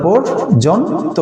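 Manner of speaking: পর্যন্ত said slowly in three syllables; পর্যন্ত broken into three slow beats; slow syllable demo. Shown as a demonstration. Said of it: "উচ্চারণ করেন".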